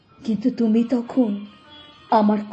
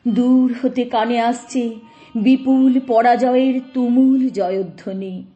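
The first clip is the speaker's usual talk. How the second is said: rising into a forceful declamation; swelling recitation; 2 semitones higher, 4 dB louder than usual. Acted. Onlooker hearing the tumultuous victory cries from afar, swelling declamation. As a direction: let the verse swell with the distant roar. Distant roar of the procession described.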